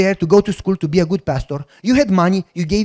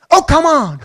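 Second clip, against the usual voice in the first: higher laughing protest; 8 semitones higher, 5 dB louder than usual. Retold or imitated.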